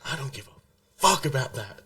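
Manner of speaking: retold airport tantrum, punching up the demand; imitated indignant outburst. Friend making a scene demanding his passport, imitated indignant outburst. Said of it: "making this full scene".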